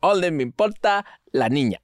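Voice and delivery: Spanish in a put-on Chinese accent; childish mock Chinese accent in Spanish. Shown as a demonstration. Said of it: "speak in Spanish with a Chinese accent".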